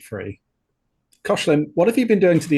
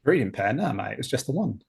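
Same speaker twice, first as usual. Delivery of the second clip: attempted Cockney accent. Crewman denies having a breeding pair, attempted Cockney accent. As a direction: play it in shaky Cockney. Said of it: "can you do the Cockney accent".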